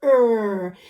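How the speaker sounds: short, clipped er sound; phonics sound er. Shown as a demonstration. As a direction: model the sound er clearly. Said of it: "what sound would he make".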